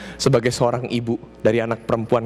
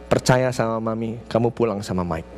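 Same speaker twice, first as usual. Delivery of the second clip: reassuring; 3 semitones lower than usual. Retold or imitated. Mother telling her frightened daughter to trust her, reassuring.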